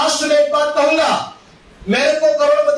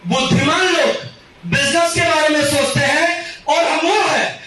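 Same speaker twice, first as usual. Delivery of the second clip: rhythmic stage recitation, rising phrase ends; motivational recital; 2 semitones higher than usual. Acted. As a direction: deliver it like a closing slogan. (मंच से नारे जैसा पाठ)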